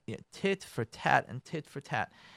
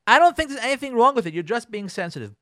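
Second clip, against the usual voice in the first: dismissive husband, emphasized; 6 semitones higher, 7 dB louder than usual. Acted. Husband's dismissal replayed for effect.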